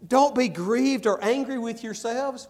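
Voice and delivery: Don't punched high and loud, pressing the point; emphatic plea. Acted. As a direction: insist loudly that they not grieve. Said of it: "look at this attitude of this man".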